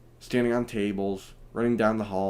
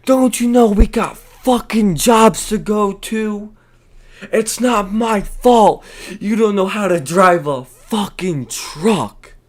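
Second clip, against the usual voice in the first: much higher, louder hammed-up shriek, slowed; screeching angry woman; 10 semitones higher, 10 dB louder, slower than usual. The driver yelling at the blocking truck, mock screech. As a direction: screech it like a ratchet hobgoblin. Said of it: "she's just yelling out to the world".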